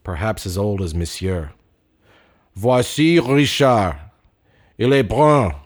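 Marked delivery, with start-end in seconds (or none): 2.5-4.0 slow, louder recorded male voice; old language tape narrator; solemn taped voice. Acted. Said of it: "a solemn male voice from the past". 4.8-5.5 louder, measured language-tape reading; old language tape voice; solemn taped voice. Acted. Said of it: "a solemn male voice from the past".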